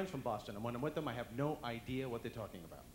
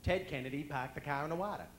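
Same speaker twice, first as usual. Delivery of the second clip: mock Boston accent with dropped r's. Shown as a demonstration. Comic joking about Kennedys, in Boston accent. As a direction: lightly imitate a Boston accent. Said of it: "The Kennedys are from that area".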